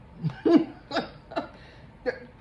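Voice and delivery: loud breathy laugh; burst of laughter. Real, not acted. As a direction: laugh out at the joke. Laughs at her own reading.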